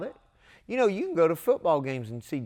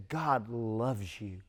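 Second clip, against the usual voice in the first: tender; 4 dB quieter, much slower than usual. Retold or imitated. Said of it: "And I could look at you and say".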